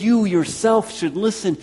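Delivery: "You yourself" pitched high and loud; double emphatic. Acted. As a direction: punch both "You" and "yourself" to demand attention. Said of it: "he'll use that double emphatic".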